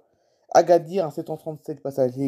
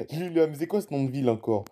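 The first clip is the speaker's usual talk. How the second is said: laughing in disbelief. Real, not acted. Vlogger amused by a strange Swedish city name, laughing. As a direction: chuckle through the words, amused by the name.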